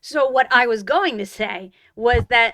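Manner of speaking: pointedly taking back the floor. Real, not acted. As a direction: stress GOING as if you were interrupted. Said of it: "You don't have to say it like that".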